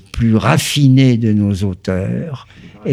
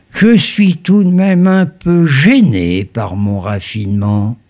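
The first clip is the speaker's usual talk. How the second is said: recitation. Acted. Recites Céline passage.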